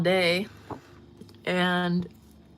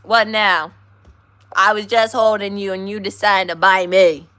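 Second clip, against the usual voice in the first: exasperated scolding; 10 dB louder than usual. Real, not acted. Scolding dog after bite.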